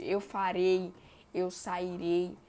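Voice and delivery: farei and sairei with the stress hitting rei; teacher stressing the final syllable; stressed ending demo. Shown as a demonstration. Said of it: "esse som mais forte".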